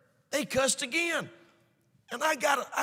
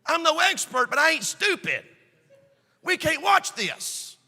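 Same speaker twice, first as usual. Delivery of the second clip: firm stand. Retold or imitated. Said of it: "I said".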